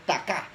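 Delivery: "taká" stressed on the final A; acento en la última A. Shown as a demonstration. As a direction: land the stress of "taká" on its last syllable. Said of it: "un acento en la última A". ("taká" con el acento en la última A)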